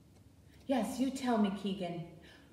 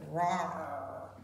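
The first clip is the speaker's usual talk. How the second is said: bear roar; 6 semitones lower than usual. Shown as a demonstration. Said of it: "Can you roar like a bear?".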